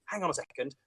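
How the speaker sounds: soft, hushed, leaning in to confide; stage whisper. Shown as a demonstration. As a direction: share it like a secret. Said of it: "there's that stage whisper that kind of says".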